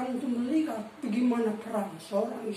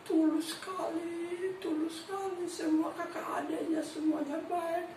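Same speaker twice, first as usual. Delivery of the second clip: higher-pitched, mildly tearful retelling; retold tearful account; 5 semitones higher than usual. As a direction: imitate a sibling's moved, high-pitched praise. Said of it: "menceritakan sambil menangis".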